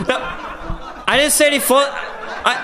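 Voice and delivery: high, laughing denial that breaks off; words swallowed by laughter; helpless laughter. Real, not acted. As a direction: try to protest but collapse laughing. Cannot finish for laughing.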